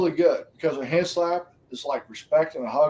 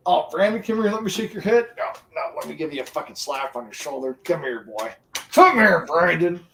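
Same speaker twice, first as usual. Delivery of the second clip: mock hearty greeting. Acted greeting with shoulder slap.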